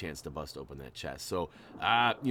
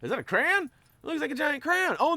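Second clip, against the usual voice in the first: surprised; 6 dB louder than usual. Real, not acted. Spotting a giant crayon.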